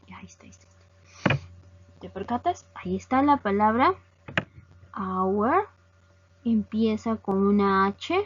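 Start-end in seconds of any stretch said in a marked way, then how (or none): 5.0-5.7 "hour" begun on the vowel, H silent. Shown as a demonstration. Teacher shows the word starts with a written H, silent H. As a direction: say "hour" without sounding the H. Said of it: "esa H no está sonando".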